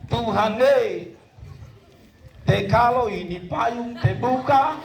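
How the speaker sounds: slow, lightly acted bargaining prayer; berdoa menawar. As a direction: plead slowly with God, a touch of comedy. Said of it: "lalu dia berdoa". (doa tawar-menawar, pelan)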